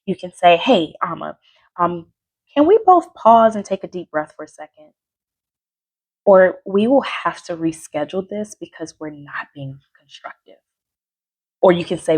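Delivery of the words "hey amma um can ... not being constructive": calm suggestion. Shown as a demonstration. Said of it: "tone is everything".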